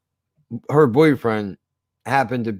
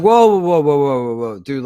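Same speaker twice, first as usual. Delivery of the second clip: startled whoa; 4 dB louder than usual. Retold or imitated. Alarmed at pregnant girl smoking.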